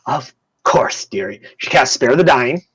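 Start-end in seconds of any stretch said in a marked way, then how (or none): 0.0-1.4 nurse. Acted. Nurse agrees to fix up the hurt man, obliging. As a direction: answer sweetly in a breathy voice. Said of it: "She goes".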